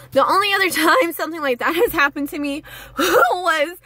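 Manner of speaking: laughing through the words. Real, not acted. Telling the viewers, laughing through it. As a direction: giggle while you tell it. Laughing at her own memory.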